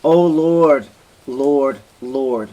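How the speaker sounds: a smothered wife cries out to God, fading; crying out in terror. Acted. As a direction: cry out as the breath is stopped. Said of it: "cries out".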